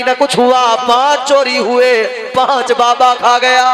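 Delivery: loud, ringing sermon storytelling; full-voiced preacher narration; preaching. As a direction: preach the tale out to the crowd. Preacher tells story to crowd.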